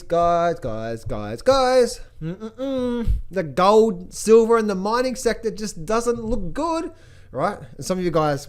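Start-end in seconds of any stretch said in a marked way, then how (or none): 0.0-6.9 insistent warning. Retold or imitated. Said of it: "I've been saying".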